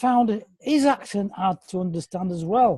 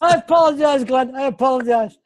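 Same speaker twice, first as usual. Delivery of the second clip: laughing apology; 3 semitones higher, 3 dB louder than usual. Real, not acted. Apologising to Glenn after teasing him, laughing. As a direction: say sorry while laughing at yourself.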